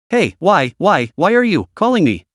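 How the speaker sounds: halting, broken-up words; stuttering. Acted. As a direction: stumble over every word. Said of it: "Why are you speaking in stutters?".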